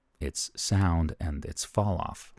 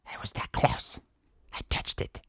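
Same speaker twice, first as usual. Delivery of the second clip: whisper; 5 dB quieter than usual. Pretend. Whispered aside after close demo.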